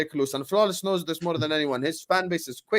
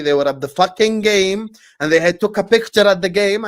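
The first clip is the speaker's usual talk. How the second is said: raised, pressing voice, pitch up; heated, louder insistence; insistent and loud; 4 semitones higher, 5 dB louder than usual. Real, not acted. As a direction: insist hard that they were really there. Insisting they attended.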